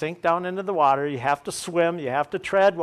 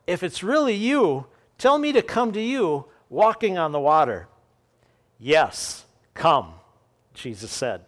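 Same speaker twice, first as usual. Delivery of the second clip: measured, earnest Bible reading to the congregation; scripture reading. Acted. Pastor reading Matthew to his congregation, steady and earnest. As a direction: read the passage like a pastor from the pulpit.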